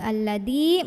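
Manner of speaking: "alladzi" with a hard d-like consonant for the dzal; wrong d sound. Shown as a demonstration. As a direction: say "alladzi" with the tongue stopped behind the teeth. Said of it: "jangan juga".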